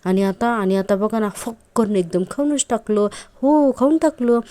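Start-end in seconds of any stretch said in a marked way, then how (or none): 1.3-4.4 gleeful gloating. Retold or imitated. Priya gloats to the constable about Arjun, gleeful and higher. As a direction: crow it like a half-mad prisoner.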